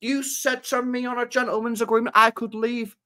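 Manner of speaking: imitating a footballer whining to his club; mock moaning player. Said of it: "moaning at the club going".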